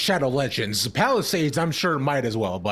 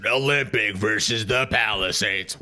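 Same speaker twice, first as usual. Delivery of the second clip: lower, sinister villain read of Olympic versus the Palisades; 5 semitones lower than usual. Acted. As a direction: announce the matchup like a scheming villain. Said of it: "What is that voice I'm doing?".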